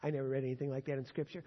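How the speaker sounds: quick, offhand quote of a skeptic; mock doubter's objection. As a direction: toss off the objection fast like a doubter. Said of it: "You say".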